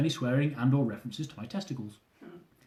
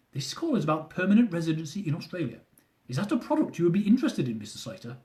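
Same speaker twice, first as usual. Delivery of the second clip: put-on thick Indian accent; 3 semitones higher than usual. Officer offering residency like a product, Indian accent. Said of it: "with a thick Indian accent".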